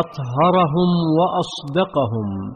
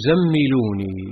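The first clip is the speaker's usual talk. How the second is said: faint trembling whisper-like plea; 3 semitones lower than usual. A narrator's reading. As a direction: trail off in fear. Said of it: "قال وهو يرتجف".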